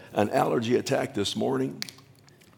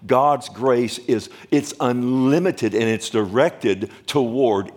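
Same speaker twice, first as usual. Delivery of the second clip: rising, ringing pulpit cadence, grace hammered each time; full-force preaching; 2 semitones higher than usual. Acted. Preacher to his congregation, fervent preaching. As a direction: preach it out, building with every line.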